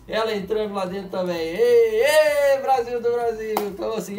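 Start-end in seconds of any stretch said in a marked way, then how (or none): 1.4-3.5 high, loud hype call; catchphrase cheer. Real, not acted. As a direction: cheer it out like a fan. Hyped catchphrase calls. (grito animado de bordão)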